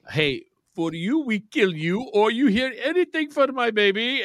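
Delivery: a clumsy fake French accent for a kidnapper, slowed at the start; mock kidnapper accent. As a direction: threaten like a movie kidnapper in bad French-sounding English. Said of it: "why do your kidnappers automatically have this accent".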